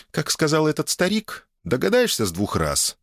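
high, coy feminine voice; teasing wife. A narrator's reading. Wife tempting husband to guess, coy high voice. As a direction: tease him with a riddle, voice lifted.

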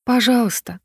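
put-on child's pleading please; hopeful please. Boy begs his mother to let him stay, hopeful child voice. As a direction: beg gently like a small boy. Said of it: "Голос ребёнка наполнился надеждой".

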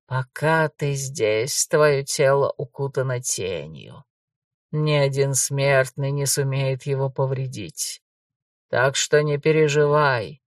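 low, slow, eerie ghost; a calm brother from beyond the grave; shadow ghost voice. Acted. Ghost reassures Gor.

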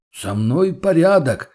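called out. Acted. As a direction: call out to reassure them, drawn out. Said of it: "крикнул тот".

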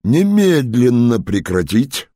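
loud, slow, stern command; the officer commanding the thugs to stop; commanding order. A narrator's reading. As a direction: order them to stop at once. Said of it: "властный голос".

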